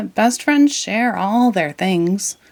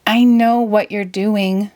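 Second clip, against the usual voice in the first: interrupting; 3 semitones higher, 4 dB louder, slower than usual. Acted.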